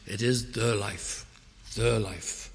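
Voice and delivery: THE drawn out slowly before "life"; stress on THE. Real, not acted. Preacher defining life in its essence, stress on THE. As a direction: lean long on "the", then let "life" fall.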